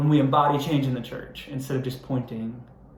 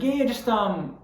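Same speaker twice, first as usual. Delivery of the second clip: lazy clerk; 9 semitones higher, slower than usual. Retold or imitated. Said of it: "he's like".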